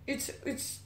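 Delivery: halting, stuttered false starts; stuttering. Real, not acted. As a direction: stumble and repeat words while searching. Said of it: "I'm stuttering".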